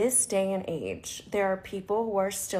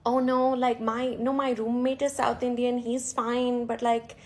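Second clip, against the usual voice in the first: imitating a flustered man backpedalling, pitched higher; mock stammering excuse in a raised voice; flustered stuttering; 4 semitones higher than usual. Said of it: "stuttering now".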